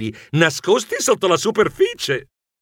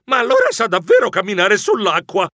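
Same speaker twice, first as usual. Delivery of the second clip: higher, a touch louder wonder; amazed exclamation; 5 semitones higher, 3 dB louder than usual. Retold or imitated. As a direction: marvel out loud. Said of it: "Io gridai impressionato".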